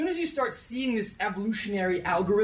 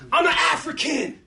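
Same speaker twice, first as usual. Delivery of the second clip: high shouted lead call; call to the crowd; 9 semitones higher, 4 dB louder than usual. Shown as a demonstration. Speaker leading the audience chant, shouted call. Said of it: "So we're gonna try this out".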